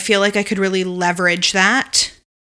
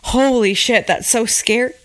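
hiccups; 3 semitones higher than usual. Real, not acted. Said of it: "Sorry, I have the hiccups now".

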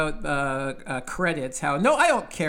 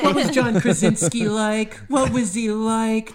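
mock starstruck; 4 semitones higher, 4 dB louder than usual. Acting out starstruck fans quizzing him.

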